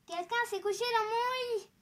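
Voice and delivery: high, loud middle-sized bear; medium bear voice. A narrator's reading. Middle bear finding bed used, high indignant exclamation. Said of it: "dit de sa voix moyenne".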